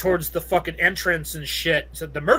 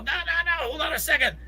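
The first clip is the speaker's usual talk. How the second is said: correcting himself; 11 semitones higher than usual. Real, not acted. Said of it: "self-correction".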